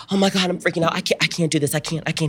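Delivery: high-pitched fake panic; hammed-up distress; acted freak-out. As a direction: act overwhelmed, stammering repeats. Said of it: "Me being an actor".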